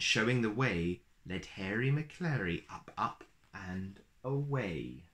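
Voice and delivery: put-on lilting read-aloud rhythm for a children's picture book; storybook reading. A narrator's reading. Uncle reading a rhyming book to little kids, lilting storyteller voice. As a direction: read it like a bedtime story, bouncy verse.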